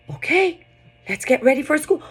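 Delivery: excited storytime for a little one; animated storytelling. Shown as a demonstration. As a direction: sell every George to a toddler. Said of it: "going back to the same vocabulary".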